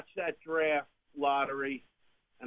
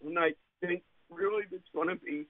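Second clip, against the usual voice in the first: getting emotional; 5 semitones higher than usual. Real, not acted. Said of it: "I'm getting emotional".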